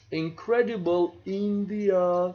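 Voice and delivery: a light, inviting tourism-ad read of the slogan. Shown as a demonstration. Lecturer trying the tourism ad for students, mild ad-slogan delivery. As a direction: sell the country like the ad, lightly. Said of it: "so I cannot say this".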